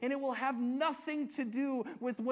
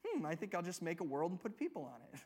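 lightly voiced offhand musing, quick, lower and softer; mock casual musing; 4 semitones lower, 5 dB quieter, faster than usual. Preacher imagining God deciding to make a world, mock casual. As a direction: toss it off as an idle, mock passing thought.

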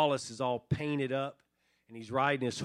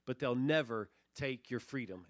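William Wallace; 3 semitones higher than usual. Acted. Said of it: "William Wallace responds".

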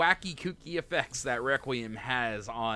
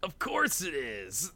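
higher Goku voice; 4 semitones higher than usual. Acted. Voicing Goku reading manga.

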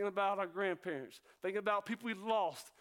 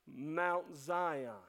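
slow, lower and deliberate; real slow; 5 semitones lower than usual. Shown as a demonstration. Preacher telling the church their privileges, real slow. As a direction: spell it out slowly for them. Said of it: "tell you real slow".

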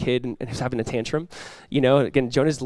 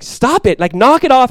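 mock stern scolding; 9 semitones higher, 8 dB louder than usual. Imagined God scolding Jonah.

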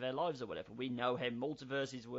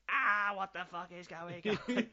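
high, loud cry of comic panic; mock panicked scream; 8 semitones higher, 5 dB louder than usual. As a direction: scream it like staff running around in chaos. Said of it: "running around screaming".

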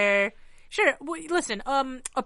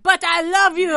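over-the-top lover; 9 semitones higher, 11 dB louder than usual. Retold or imitated. Over-the-top couple quoted.

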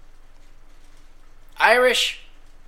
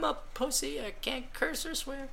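trailing emo mockery; 8 semitones higher, 14 dB quieter than usual. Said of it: "Those millennial type emo guys".

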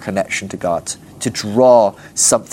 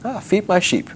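weird Jesus; 7 semitones higher, 3 dB quieter than usual. Acted. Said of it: "It's weird".

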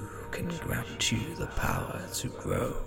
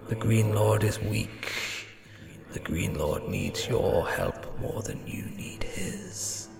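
soft, unvoiced tempting whisper; ghost voice; 5 semitones lower, 10 dB quieter than usual. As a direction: lure him in, barely breathed.

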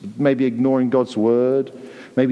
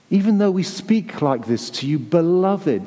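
tender address; 3 semitones higher than usual. Shown as a demonstration. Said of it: "that's how this warning comes from God".

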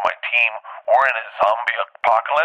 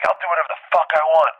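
higher-pitched imitation of a defiant DJ; mock-angry comeback, pitched up; defiant retort; 6 semitones higher than usual. DJ snaps back at comic on stage, defiant retort.

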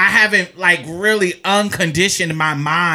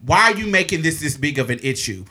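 understated, polite retold appeal; respectful, calming; 3 semitones lower than usual. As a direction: keep addressing her patiently by name. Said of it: "respectfully calling her her name".

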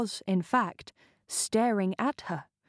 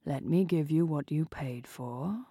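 lazy drawl; 3 semitones lower than usual. Acted. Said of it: "in a lazy, practiced drawl".

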